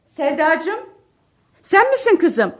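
light up at her voice; delighted phone greeting. Acted. Wife answers phone call gladly. (telefonda sevinçle yüksek sesle selamlama)

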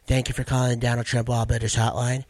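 light presidential impression, a little low; lightly voiced politician working a phone line; Donald Trump. Comic answering mom's call as a hotline, mild Trump impression. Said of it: "when I do my Donald Trump".

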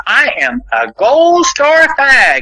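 high, slow, mock-sassy drawl; sassy young gay guy. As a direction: imitate the snapping young guy, hammed-up and high. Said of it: "snapping their fingers and going".

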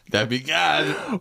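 put-on slow Boston accent, drawn out; Boston accent, like an old gangster. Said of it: "talking in a Boston accent".

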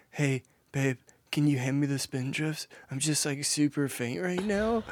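mock faint voice. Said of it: "You were being so dramatic".

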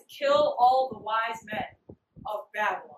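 slow, weighty retold royal order; emphatic decree. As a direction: spell out the order slowly, word by word. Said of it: "He dead says".

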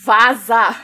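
loud sharp order to leave; shouting at trespasser. Pretend. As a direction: bark get out. Kicking out intruder.

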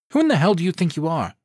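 high, loud and fast outraged demand; furious. A narrator's reading. Candace wrenching free from Brandon, furious. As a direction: tear into him.

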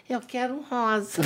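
put-on laughing childlike request. Child asking for pink, laughing.

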